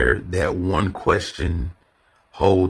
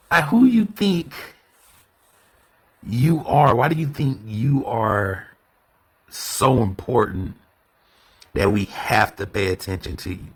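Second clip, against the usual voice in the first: higher, indignant questioning; scornful challenge; 4 semitones higher than usual. Shown as a demonstration. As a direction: challenge their self-importance. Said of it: "Now I'm asking that question".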